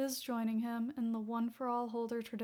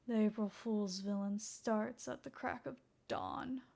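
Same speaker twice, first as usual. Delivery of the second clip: darkly; 4 dB quieter than usual. Acted. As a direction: say it darkly, a grudge underneath. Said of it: "Darkly, Naomasa said".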